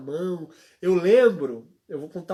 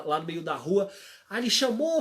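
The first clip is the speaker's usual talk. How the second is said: ordinary delivery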